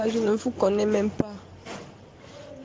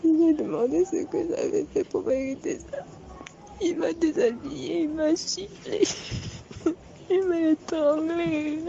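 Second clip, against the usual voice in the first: crying; 3 semitones higher than usual. Real, not acted. Survivor recounting the assault, sobbing. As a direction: push the words out through tears.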